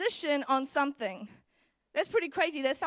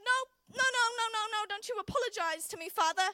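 stubborn refusal; 6 semitones higher than usual. Pretend. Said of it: "stuck in my stubbornness".

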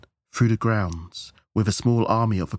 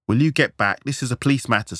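raised, louder police command; officer's order; 5 semitones higher, 4 dB louder than usual. A narrator's reading. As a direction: order him back firmly. Officer orders robed man back.

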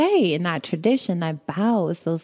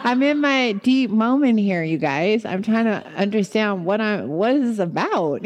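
laughing protest; 4 semitones higher than usual. Retold or imitated. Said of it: "I'm like".

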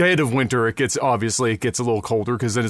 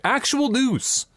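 high slow announcer; 9 semitones higher, much slower than usual. Acted. Podcast intro flourish.

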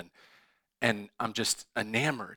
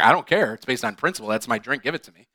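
indignant demand; 7 dB louder, faster than usual. Retold or imitated. Meredith demanding her drink.

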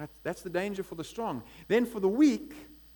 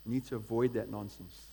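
much lower, firm correction; God's voice; 8 semitones lower than usual. Retold or imitated. God warning the divided church, low and firm. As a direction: speak as God settling it. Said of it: "God's going".

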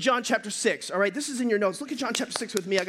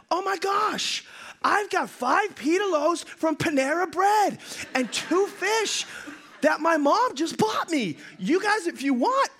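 put-on high, bright childlike offer; a keen kid blurting out his gift; eager little boy; 6 semitones higher, slower than usual. Little boy offering his lunch to the disciples, high and eager.

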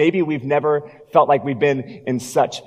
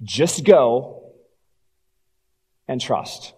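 simple calm command; much slower than usual. Acted. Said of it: "He simply said".

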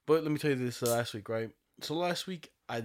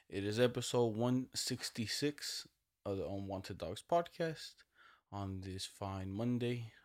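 slow, grand show intro; slow formal announcer; 4 dB quieter, slower than usual. Acted. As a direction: open the episode like a proclamation.

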